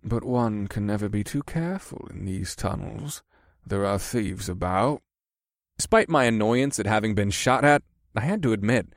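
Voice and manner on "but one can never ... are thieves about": foppish man voice. Acted. Scourge's voice.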